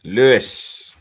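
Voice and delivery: whispered name. Acted. Reading a donor's name.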